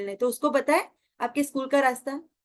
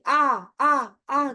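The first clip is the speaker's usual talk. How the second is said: repeating echo; 4 dB louder, much slower than usual. Retold or imitated. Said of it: "जोर से आवाज आने लगी".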